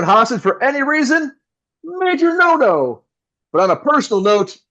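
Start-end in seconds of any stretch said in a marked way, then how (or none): 1.8-3.0 emphatic no-no. Acted. Host scolding listeners.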